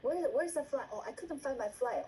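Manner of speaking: muttering to yourself; flustered self-talk. Retold or imitated. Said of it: "don't talk to yourself".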